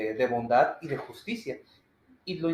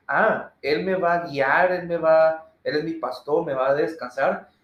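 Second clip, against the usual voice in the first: slow, louder mock of a naive believer; mocking quote; 2 semitones higher, 6 dB louder, slower than usual. Speaker mocks how people misread the psalm, mockingly. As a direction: parody a self-centred reading of the psalm, drawn out. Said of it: "porque dicen".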